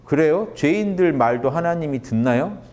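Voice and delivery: lifted, needling question; teasing retort with a lifted pitch; mock-innocent challenge. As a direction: poke holes with a sweet question. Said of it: "바리새인들을 논리로 친 거죠".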